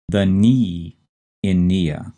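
slow, set-apart "knee", then "nia"; stressed syllable picked out. Shown as a demonstration. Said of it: "stress is on the second syllable".

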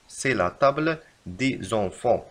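very slow correction; slow dictation. Shown as a demonstration. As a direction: dictate it slowly. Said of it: "يجب كتابة".

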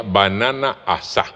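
"asá" stressed on its last á; stressed final Á. Shown as a demonstration. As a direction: end "banana asá" on an open, stressed á. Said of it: "A S A con tilde".

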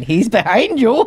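slow, high panto "He's behind you"; pantomime call. Acted. Joking about Shane in a mock pantomime chant. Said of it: "the thing in the pantomime".

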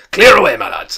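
loud, high, hearty order; Fezziwig. A narrator's reading. Fezziwig to his lads, a jovial shout. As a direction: holler it jovially across the room. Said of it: "cried old Fezziwig".

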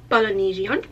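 Polynesian said as paloniZHion, vowels shifted oddly; a stray, half-put-on foreign accent on Polynesian; a slip into an unplaced accent; odd accidental accent. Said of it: "trying to do a Polynesian accent".

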